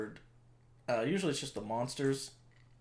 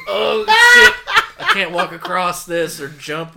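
surprised; 6 semitones higher, 19 dB louder, slower than usual. Retold or imitated. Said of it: "and he just goes".

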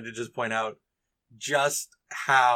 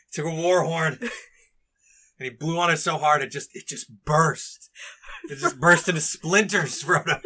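put-on drunk, amazed Merry; 3 semitones higher, 3 dB louder than usual. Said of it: "Merry's just like".

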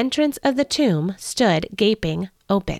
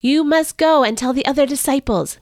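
higher, pressing angel; urging angel; 5 semitones higher than usual. Acted. Angel sending Mary to the disciples, urgent and raised. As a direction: urge her on to go now. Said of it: "the angel urged".

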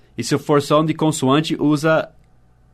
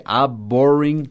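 slow linked model; slower than usual. Shown as a demonstration. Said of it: "o A já entra no B".

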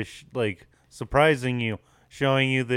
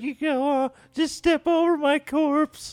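put-on dramatic dying old man; 13 semitones higher than usual. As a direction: wheeze it out like a dying hero. Old man's dramatic dying words.

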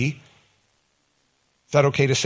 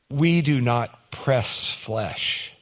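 the Queen's line; 3 dB quieter, much slower than usual. Retold or imitated. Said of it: "She said".

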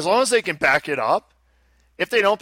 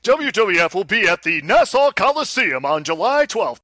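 monster truck ad; 4 semitones higher, 3 dB louder than usual. Acted. Event ad parody.

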